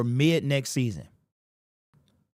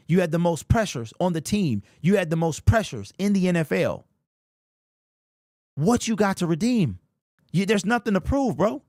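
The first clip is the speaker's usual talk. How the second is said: emotional plea; 3 semitones higher than usual. Real, not acted. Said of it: "It literally is getting me emotional right now".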